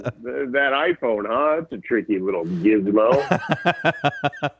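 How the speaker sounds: slow, hokey stand-up voice; corny comic bit. Pretend. Guest forced to do bits, slow hokey comic. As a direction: play a hacky old comedian. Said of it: "roll with some bits".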